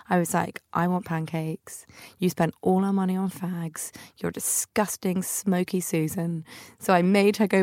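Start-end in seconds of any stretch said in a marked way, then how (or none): 0.7-6.4 cross. Retold or imitated. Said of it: "I have never been so cross with her".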